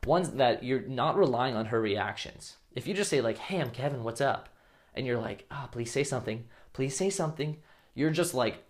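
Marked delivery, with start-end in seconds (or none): 3.4-4.5 softer, needy greeting. Shown as a demonstration. Guy needy for the girl's reaction, softer and unsure. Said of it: "so needy for that reaction". 5.5-7.6 softer, begging for a reply; needy pleading. Shown as a demonstration. Needy guy silently begging the girl to talk, softer. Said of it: "so needy for that reaction".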